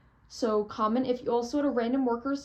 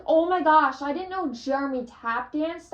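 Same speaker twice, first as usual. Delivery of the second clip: excited gasp; 5 semitones higher, 5 dB louder than usual. Retold or imitated. Shocked fan reaction.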